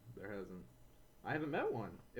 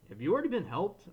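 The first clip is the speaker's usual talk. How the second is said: curt, pushy question, higher and louder; rude old lady; 6 semitones higher, 5 dB louder than usual. Retold or imitated. Old lady shoving past at the deli, rudely curt. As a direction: snap it at him like she owns the place. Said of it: "she was equally rude".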